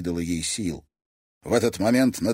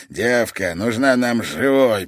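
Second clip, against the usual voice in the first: hissed; 5 dB louder than usual. Acted. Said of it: "прошипел Микель".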